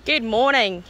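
put-on light, shaky-grasp Australian accent; attempted Australian accent. Opening the vlog, half-successful Australian accent. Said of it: "I guess I'm gonna be Australian".

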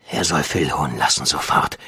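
low command. A narrator's reading. Demand made at gunpoint.

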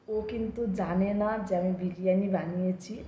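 hushed so husband won't hear; speaking softly. Real, not acted. Hiding the biryani surprise from her husband, hushed. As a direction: keep it low, a secret from the next room. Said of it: "আমি আস্তে আস্তে বলছি".

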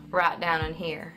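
Southern twang, loose and rolled out; Southern accent. Shown as a demonstration. Coach shows mouth placement, loose Southern accent. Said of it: "For this kind of accent".

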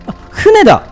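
sudden high startled cry; hit hard crying out. Real, not acted. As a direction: blurt it out in shock. Spots ghost ship, cries out.

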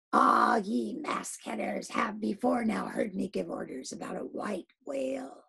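commanding captain's voice, rising to a cry; rally the men with the gold; Ahab addressing the crew. Acted. Captain calls to his crew, building to a shout.

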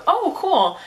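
very high, loud, chirpy reply; mock enthusiasm. Acts out her naive Snapchat reply.

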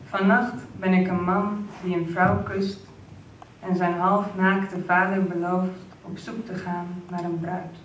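slow, measured recital with pauses between phrases; poem reading. Acted. Poet reads from a new collection to the launch audience, slow poetry recital. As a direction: read the poem out slowly, weighting key words.

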